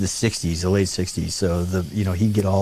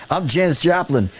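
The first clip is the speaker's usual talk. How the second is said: a singer's voice; 7 semitones higher than usual. Retold or imitated. Acts out the singer introducing herself.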